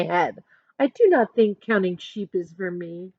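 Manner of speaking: put-on lively picture-book narration for kids; reading a story aloud. A narrator's reading. Teacher reading a picture book to her class, storytelling voice. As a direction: read it as Amanda telling her own story.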